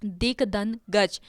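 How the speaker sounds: दिक धन गज said slowly, each part set apart; slow split. Shown as a demonstration. Teacher slowly splits the word for the students. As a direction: break it into दिक, धन, गज one piece at a time. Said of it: "दिग्गज का हम संधि विच्छेद करें".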